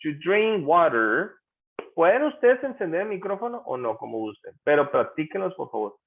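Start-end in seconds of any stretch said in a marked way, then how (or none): 0.0-1.3 "To drink water" said slowly, word by word; pronunciation model. Shown as a demonstration. Teacher proposes practising pronunciation with students, slow model of "To drink water". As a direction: stretch "To drink water" slowly for learners to copy. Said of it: "Practiquemos la pronunciación".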